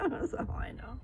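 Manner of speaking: words said through laughter; airy laugh while talking; laughing breathily. Real, not acted. Laughing right after the giggle.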